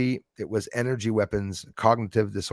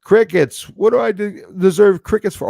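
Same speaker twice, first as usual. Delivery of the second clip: mock indignant; 11 semitones higher, 9 dB louder than usual. Real, not acted. Mock outrage at silent chat.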